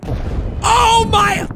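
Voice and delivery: high, drawn-out gasp of shock; shocked exclamation. Real, not acted. Viewer suddenly seeing what happened, shocked exclamation.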